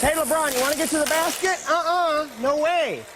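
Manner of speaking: mocking taunt. Mock defender taunting LeBron.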